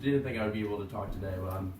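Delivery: hoarse, strained voice; losing voice. Real, not acted. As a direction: talk through a failing voice. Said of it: "I'm losing my voice".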